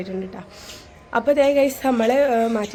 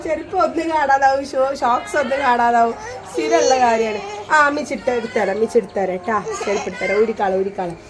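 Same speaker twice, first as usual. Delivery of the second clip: gentle soothing. Real, not acted. Mother soothing son about shoes.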